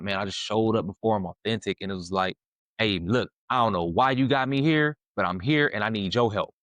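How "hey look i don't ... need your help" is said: insistent, rising to a loud demand; stubborn plea. Retold or imitated. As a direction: refuse to leave until God helps. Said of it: "that was literally my attitude".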